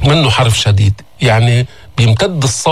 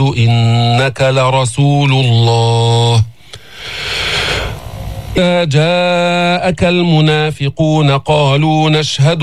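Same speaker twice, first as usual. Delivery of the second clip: slow chanted Quran recitation; much slower than usual. Acted. Teacher recites the verse for the class, chanted slowly. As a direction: intone the verse slowly, tajwid style.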